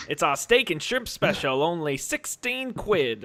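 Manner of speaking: Brit faking Australian. Retold or imitated. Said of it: "British guy... to sound Australian".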